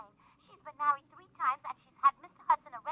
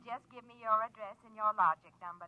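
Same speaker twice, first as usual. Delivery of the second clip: low, hushed seductive purr; sultry flirt; 6 semitones lower than usual. Acted. Lorene luring Frank to come over, low seductive purr. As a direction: lure him with a low, lonesome coo.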